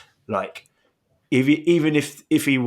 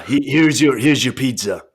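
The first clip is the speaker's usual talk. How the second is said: Triple H impression; 4 dB louder than usual. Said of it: "you sound like nineties Triple H".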